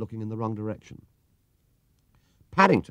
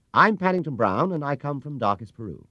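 higher, polite bear voice; earnest little bear; 6 semitones higher, 3 dB louder than usual. A narrator's reading. Paddington introduces himself to the bowler, polite and proud.

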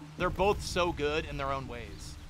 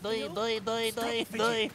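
higher-pitched, bouncing mock doi-doi; goofy running noises; 5 semitones higher, much slower than usual. Streamer mocking how the character runs, goofy bouncing voice. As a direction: imitate her silly run in bouncy syllables. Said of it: "she's like".

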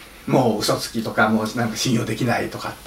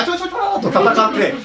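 Bruce Lee cry; 13 semitones higher than usual. Retold or imitated. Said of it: "死亡遊戯、ブルース・リーの".

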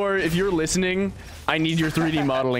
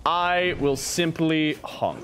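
silly clown; much slower than usual. Pretend. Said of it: "I refuse to break the internet".

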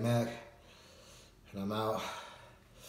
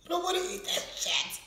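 high whiny refusal. Real, not acted. Refusing the spicy noodles.

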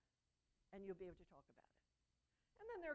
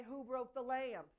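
slow, loud accusing question; slow, loud accusatory parent; accusing demand; 3 semitones higher, 10 dB louder, slower than usual. Retold or imitated. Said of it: "you don't say".

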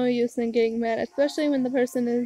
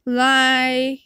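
angry accusation; 4 dB louder than usual. Acted. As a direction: accuse your father, drawing out the words. Acted furious accusation of father.

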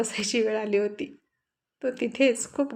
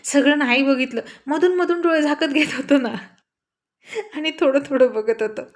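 coaxing; 4 semitones higher, 4 dB louder than usual. Acted. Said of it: "तिला समजावत".

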